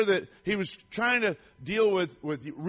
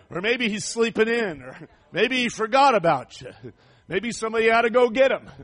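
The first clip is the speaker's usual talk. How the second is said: mock-helpful suggestions, teasing; 5 dB louder than usual. Elijah taunting the prophets of Baal, mocking. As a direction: poke fun at their absent god. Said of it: "Elijah starts mocking them".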